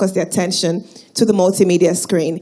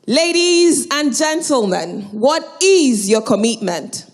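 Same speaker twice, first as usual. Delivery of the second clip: rallying call to crowd; 4 semitones higher, slower than usual. Real, not acted. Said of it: "doesn't sound convincing".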